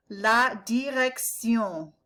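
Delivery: "direction" ending in a nasal sion, not shun; slow "La direction" with a French ending; no English shun in "direction". Shown as a demonstration. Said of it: "It's not shun".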